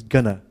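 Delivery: "gonna" said with a short schwa and a falling tune; weak gonna. Shown as a demonstration. Teacher shows the reduced form of "going to", falling. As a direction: drop it lightly. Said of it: "Going to becomes".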